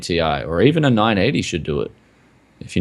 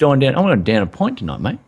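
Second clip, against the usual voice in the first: badly faked Irish, closer to Manchester; quick, mangled Irish accent; attempted Irish accent; 4 semitones higher, faster than usual. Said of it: "You sound like you're from Manchester".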